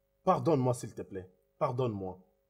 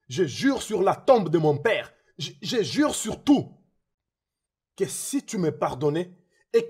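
desperate pleading; 4 semitones higher, 5 dB louder than usual. Acted. Begging Richard for forgiveness.

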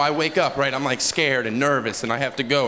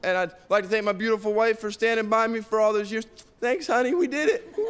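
mock winner's speech; 6 semitones higher than usual. Mock acceptance speech, overjoyed winner.

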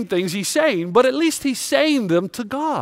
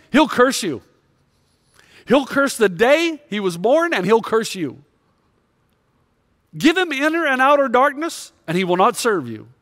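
accusing Satan; 4 semitones higher than usual. Retold or imitated. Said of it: "Satan says to God".

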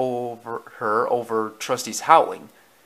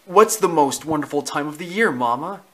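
lightly voiced eager pup, higher; curious puppy; 4 semitones higher, 4 dB louder than usual. Scamp asks his mama, lightly voiced curious puppy. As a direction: ask it like an inquisitive little puppy.

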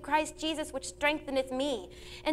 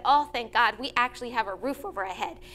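grateful thanks; 3 semitones lower than usual. Retold or imitated. Family thanking God for the leaky roof, gratefully. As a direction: sound truly thankful for a roof. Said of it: "Instead, we said".

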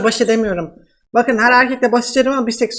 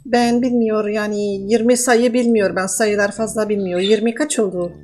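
man doing a woman's voice. Pretend. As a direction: fake Russian woman, broken Turkish. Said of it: "nasıl kadın sesi yapıyorum".

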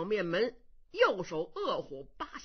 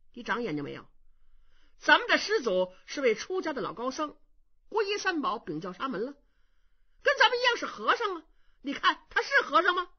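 a lightly voiced young monk, sharp and louder; suspicious young monk; 4 semitones higher, 3 dB louder, faster than usual. Young monk warning his brother about the impostor, suspicious. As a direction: stop your brother cold, doubting.

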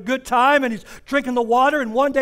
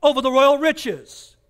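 preaching cadence. Acted. Pastor building a point to the congregation, preaching. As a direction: preach it, stacking each line.

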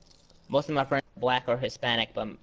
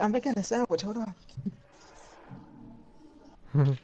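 casual call back; 7 semitones higher than usual. Retold or imitated. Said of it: "I'm like".

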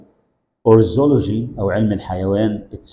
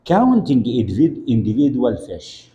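slow model phrase; much slower than usual. Shown as a demonstration. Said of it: "teacher models slowly".

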